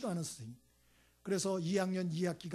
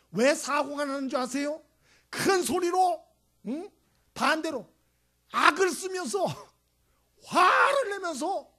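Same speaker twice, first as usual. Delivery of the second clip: much louder and higher, yelling; shouting; 9 semitones higher, 10 dB louder, slower than usual. Real, not acted. Preacher showing how fights blow up, loud yell. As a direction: act out the screaming fight.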